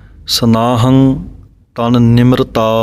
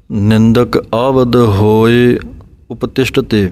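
slow phrase, tail dropping away; slow joined reading. Shown as a demonstration. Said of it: "ਇਹ ਪਾਠ ਇਕੱਠਾ ਹੈ".

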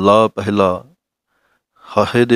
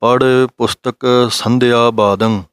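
deliberate scripture reading; careful recitation. Shown as a demonstration. Teacher demonstrating the full line for students, careful recitation. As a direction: read the line clearly syllable by syllable. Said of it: "ਇਸ ਤਰ੍ਹਾਂ ਬੋਲਣੀ ਹੈ".

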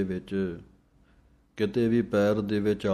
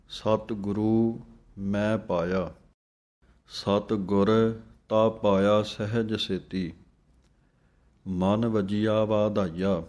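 slow chant, ਸਤਿਗੁਰੂ then a short stop before ਤਾ; pause after ਸਤਿਗੁਰੂ; slower than usual. Shown as a demonstration. Teacher showing students where to pause in ਸਤਿਗੁਰ ਤਾ ਪਾਇਆ. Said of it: "ਸਤਿਗੁਰੂ ਬੋਲ ਕੇ ਥੋੜ੍ਹਾ ਜਿਹਾ ਰੁਕ ਕੇ".

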